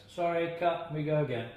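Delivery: the director halting the take to restart it, loud; director calling cut. Retold or imitated.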